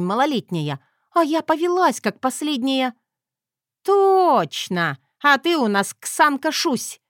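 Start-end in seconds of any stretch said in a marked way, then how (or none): 3.8-7.0 loud, higher, mocking gotcha; mother-in-law mocks the heroine; sly jab. A narrator's reading. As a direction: sneer as you land the nickname. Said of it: "нехорошо прищурилась свекровь".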